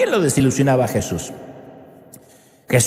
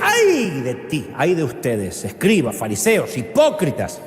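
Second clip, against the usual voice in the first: Jesus denouncing; slower than usual. Retold or imitated. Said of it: "Y Jesús decía".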